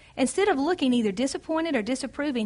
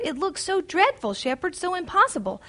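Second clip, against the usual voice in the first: higher, fearful pleading voice; reading a frightened heroine's plea, higher and fearful; 5 semitones higher than usual. Acted. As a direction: plead like a scared girl facing a cliff.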